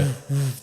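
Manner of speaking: slow, repeated whooshes; imitated rush of overwhelming feeling; overwhelmed whoosh. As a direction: blow out slow woofs.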